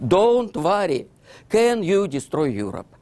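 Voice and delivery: hammed-up sweet talk to win him over; mock coaxing Stalin. Stalin coaxing Hitler to destroy Europe, mock high coaxing voice. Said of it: "Okay, Stalin say".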